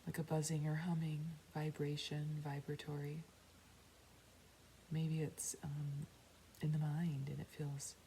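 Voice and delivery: unhurried meditation guide with long pauses; guided meditation. Real, not acted. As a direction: guide them inward, calmly. Leads a meditation.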